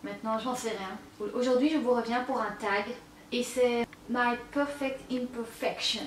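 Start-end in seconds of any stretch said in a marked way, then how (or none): 4.1-6.0 slow, hammed-up English accent on My Perfect Imperfections; mock English accent. She jokingly reads the tag name with a put-on English accent. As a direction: say the English title in an exaggerated English accent. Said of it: "avec mon magnifique accent anglais".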